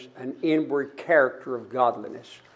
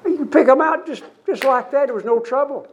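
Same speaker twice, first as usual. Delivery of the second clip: much higher and louder, punchy; emphatic exclaim; 9 semitones higher, 4 dB louder than usual. Acted. Preacher telling the congregation how obvious it was, exclaimed loud and high. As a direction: burst out with it, driving the point home. Emphatic point in sermon story.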